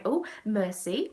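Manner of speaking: put-on French in a strong English accent. Joking in French with friends, strong English accent. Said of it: "really strong English accent".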